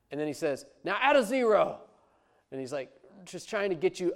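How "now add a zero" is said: louder, higher push to give more; mock fundraiser upping the pledge; mocking pushy fundraiser. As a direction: ham up the greedy ask.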